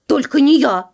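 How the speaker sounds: loud little mouse protest; squeaked refusal. A narrator's reading. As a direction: pipe up to dodge the work. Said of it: "запищал Верть". (пищит, отказываясь)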